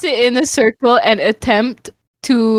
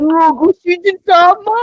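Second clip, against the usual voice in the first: raised cutesy anime maid voice; sweet high master greeting; cute anime girl voice; 8 semitones higher, 3 dB louder than usual. Pretend. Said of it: "cute anime girl Oni-chan voice".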